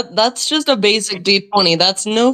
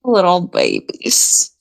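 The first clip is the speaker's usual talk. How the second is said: cooing; slower than usual. Acted. Cooing to creatures in arms.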